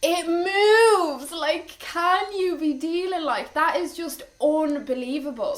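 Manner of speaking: high, loud, amazed squeal; excited squeal. Real, not acted. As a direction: gush with disbelief at the moving toy. Amazed at the toy moving.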